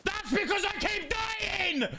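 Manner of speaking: high, slow exasperated cry. Real, not acted. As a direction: blurt it out, fed up. Exasperated outburst.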